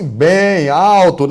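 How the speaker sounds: loud and slow demo; bem alto. Shown as a demonstration. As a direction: drag it out loudly. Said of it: "Tem gente que fala assim". (falando bem alto, devagar)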